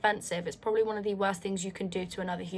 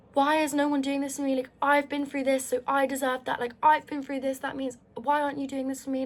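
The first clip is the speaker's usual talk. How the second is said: higher-pitched aggrieved demand, mildly angry; retold angry complaint; 4 semitones higher than usual. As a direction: re-enact your own indignant complaining, pitched up. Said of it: "I was so angry at everyone".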